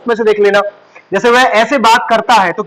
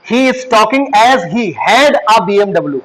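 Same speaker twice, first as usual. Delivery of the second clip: very slow, word-by-word English; slow teacher's model sentence; slow dictation; much slower than usual. Shown as a demonstration. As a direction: build the full sentence slowly for students. Teacher dictates English translation slowly.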